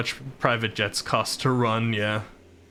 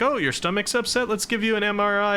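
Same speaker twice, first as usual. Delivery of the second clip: mock doctor voice; 8 semitones higher than usual. Mocking doctors' overeager offer.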